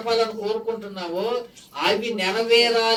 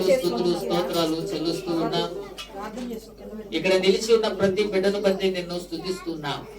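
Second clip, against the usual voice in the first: prayer. Acted. Pastor leading the congregation in prayer, solemn prayer voice.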